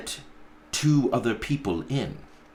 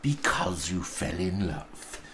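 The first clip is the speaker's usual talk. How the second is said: a lightly voiced growl, softer; 3 semitones lower, 5 dB quieter than usual. Scrooge mocks his nephew's reason with a light growl. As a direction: growl it back in scorn. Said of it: "growled Scrooge".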